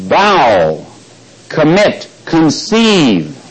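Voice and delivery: "bow", "commit", "conceive" each set apart by pauses and stressed; emphasized key words. Shown as a demonstration. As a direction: lean on "bow" and "conceive", one word at a time. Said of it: "emphasize certain words".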